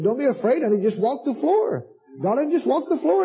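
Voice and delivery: tender coaxing. Shown as a demonstration. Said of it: "the way I'm saying them".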